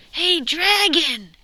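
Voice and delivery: high, very loud, slow shout. Acted. Princess shouting into the sleeping dragon's ear. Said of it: "She shouted as loud as she could".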